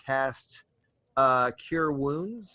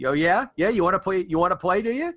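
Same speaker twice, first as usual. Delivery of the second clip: high, loud mocking taunt at a foe; taunting wolf threat; 6 semitones higher, 4 dB louder, much faster than usual. Druid taunting the mock griffin before Thunder Wave, high, loud and mocking. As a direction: goad him like a playful wolf ready to bite. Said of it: "I'm gonna say".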